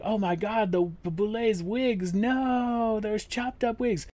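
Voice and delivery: high, excited retelling of friends' shock; excited gasp. Retold or imitated. Friends reacting during live watch.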